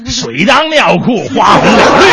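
low, hoarse pingshu storyteller. Retold or imitated. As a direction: tell it like an old pingshu master. Pingshu opening continues.

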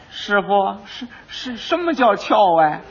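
put-on small timid boy's voice, halting and slow; timid apprentice. Little apprentice asking his master what jump means, timid. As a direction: ask the master nervously, not understanding.

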